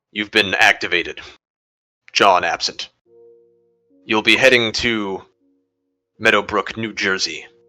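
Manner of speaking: machine-like, robotic, recorded-message voice. Narrating a scenario where a phone caller addresses the listener, robotic voice. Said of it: "clearly robotic voice says to you".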